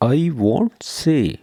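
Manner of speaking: "I won't say" said very slowly, each word drawn out; slow repeat. Shown as a demonstration. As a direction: spell it out slowly for learners. (آہستہ آہستہ دہرائیں)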